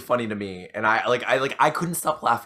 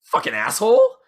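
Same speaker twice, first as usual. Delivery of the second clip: angry curse; 6 dB louder than usual. Retold or imitated. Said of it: "the girl says".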